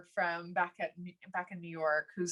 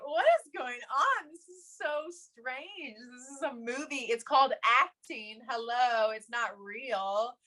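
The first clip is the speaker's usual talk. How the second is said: exasperated disbelief; 4 semitones higher than usual. Retold or imitated. Baffled by cast acting.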